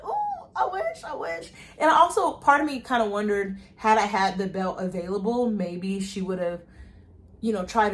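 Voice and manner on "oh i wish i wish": high, slow laughing sigh of regret; laughing wish. Retold or imitated. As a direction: laugh it off, wishing it had worked. Wistful laugh over lost sale.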